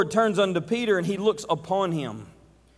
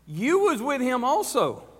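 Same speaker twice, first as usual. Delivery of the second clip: pitched higher, pressing the accusation; insistent accusation; 6 semitones higher than usual. Acted. Maid pressing Peter again with a higher, insistent accusation. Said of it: "this is what she says".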